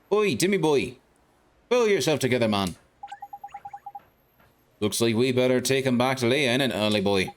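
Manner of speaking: a hint of a cocky little lantern-nosed fairy; cheeky fairy sidekick. Fairy sidekick greeting the boy in the street, chirpy.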